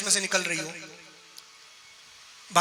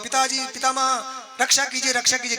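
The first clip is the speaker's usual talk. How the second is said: urgent pleading; 4 semitones higher than usual. Acted. Jayant begging Brahma for protection, urgent pleading. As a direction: appeal to an elder in a raised voice.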